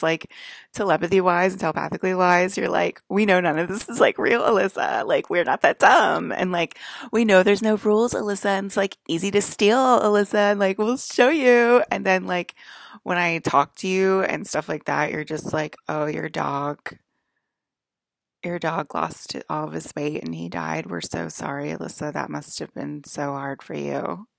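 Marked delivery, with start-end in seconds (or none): 3.1-11.8 louder, snide mock of know-it-alls; mocking quote. Mocking the general public's reply. 15.9-24.3 mock sympathy. Mocking fake condolences from public.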